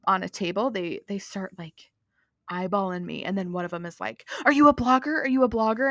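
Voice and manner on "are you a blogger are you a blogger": imitating an eager fan, louder and pitched up; gushing retold question, fired off twice; excited imitation. Excited dessert-shop lady asking whether she is a blogger, imitated excitedly. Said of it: "is, like, so excited".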